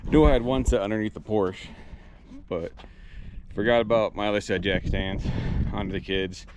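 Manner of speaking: winded, catching breath between phrases. Real, not acted. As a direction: talk while still out of breath. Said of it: "sorry, I'm out of breath".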